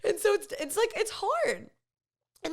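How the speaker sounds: high laughing, still giggling. Real, not acted. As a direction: talk through the tail of a laugh. Laughing after awkward story.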